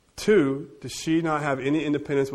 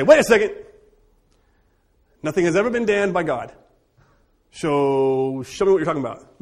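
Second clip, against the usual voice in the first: playful challenge; 2 semitones higher, 5 dB louder than usual. Pretend.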